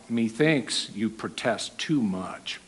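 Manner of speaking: soft, slow, knowing remark; knowing aside. Shown as a demonstration. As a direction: say it quietly and slowly, knowing. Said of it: "This is how we use it".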